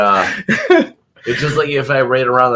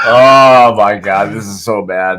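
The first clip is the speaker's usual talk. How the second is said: smelling something awful; 3 semitones lower, 4 dB louder than usual. Real, not acted. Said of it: "This smells like rotten grapefruit".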